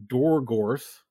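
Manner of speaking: lightly voiced boss explaining a deal; lilting, theatrical explanation with pointed pauses; Brett, smooth crime boss. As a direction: lay out the terms with casual menace.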